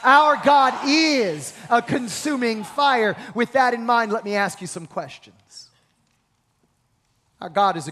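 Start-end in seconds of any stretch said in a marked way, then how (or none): 0.0-3.2 said like you mean it. Shown as a demonstration. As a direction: proclaim it with conviction, slowly. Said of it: "say it like you mean it".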